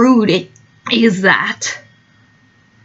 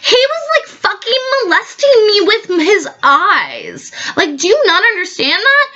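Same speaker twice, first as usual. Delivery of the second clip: much higher, squealing indignation; mock outrage; 10 semitones higher than usual. Guest shrieks her complaint to the party host. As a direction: pitch it up in hammed-up disbelief.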